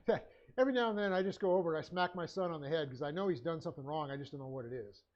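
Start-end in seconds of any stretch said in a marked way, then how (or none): 0.0-3.6 laughing while quoting. Retold or imitated. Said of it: "he openly said it".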